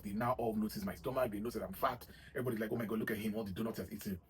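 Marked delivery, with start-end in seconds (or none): 2.7-4.2 lightly mocking, judgmental sneer. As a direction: imitate a judging gym-goer.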